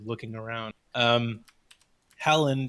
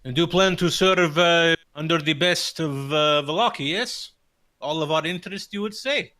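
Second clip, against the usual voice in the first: Erwin's probing question; 5 semitones higher, 4 dB louder than usual. Acted. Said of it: "you hear Erwin say".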